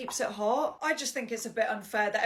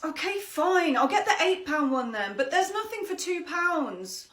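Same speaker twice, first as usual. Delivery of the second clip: put-on sulky child; 3 semitones higher than usual. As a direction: give in like a sulking kid. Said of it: "ten-year-old".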